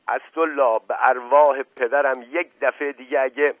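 shouting. Acted. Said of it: "فریاد زد".

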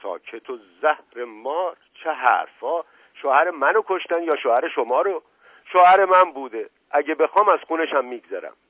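high, loud indignant scolding; flaring outrage. A narrator's reading. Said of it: "عزیز السلطنه ناگهان برآشفت". (برآشفته و پرخاشگر)

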